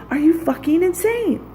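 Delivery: real furious cry of disbelief; outraged outburst. Real, not acted. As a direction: let it burst out in full outrage. Repeats the question, now shouted.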